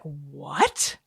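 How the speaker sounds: high, incredulous outcry; mock disbelief. Learning Meryl Streep was homecoming queen, mock disbelief high. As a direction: act baffled, pitch rising.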